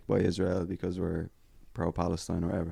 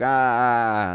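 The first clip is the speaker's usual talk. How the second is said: hecklers' yelling; 4 semitones higher, 7 dB louder, much slower than usual. Retold or imitated. Imitating angry hecklers standing up.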